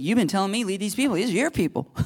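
hammed-up complaint to God; mock exasperated Moses.

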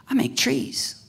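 a hushed whisper for the punchline. Retold or imitated. God telling the believer the truth, in a whisper. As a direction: drop to a whisper on the reveal.

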